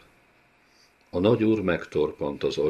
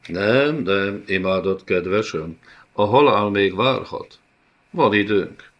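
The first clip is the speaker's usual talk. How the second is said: menacing villain. Acted. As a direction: promise pain sweetly. Villain promises slow torment. (álnokul kedveskedő gonosz úr)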